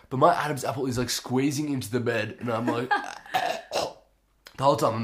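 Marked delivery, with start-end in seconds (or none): 2.9-3.7 imitated strangled choking; choking noise. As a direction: act out choking, in short voiceless bursts. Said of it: "choking because my Adam's apple".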